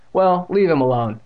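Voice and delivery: high, loud demand; firm interruption. A narrator's reading. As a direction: cut in to defend a friend. Interrupts to defend him from bullies.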